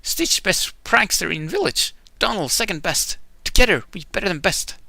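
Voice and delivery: lightly voiced Stitch bragging. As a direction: boast like a proud little alien. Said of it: "Stitch explained".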